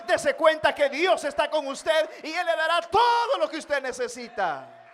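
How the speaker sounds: loud, high preacher's cry; fiery Pentecostal preaching; preaching at full force. Acted. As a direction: preach it out to the whole church. Preaching climax.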